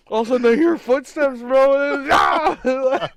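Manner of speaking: high, fast, loud and breathless; excited shout. Real, not acted. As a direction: blurt it out in a rush of panic. Retelling jump scare, shouting.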